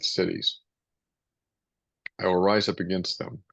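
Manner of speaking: measured, solemn Bible reading; scripture reading. Acted. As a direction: read it out like a lector at service. Reads scripture passage aloud.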